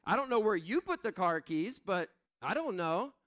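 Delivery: mildly hammed-up exasperated husband; mock exasperated. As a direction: protest like an innocent husband. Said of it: "I was like".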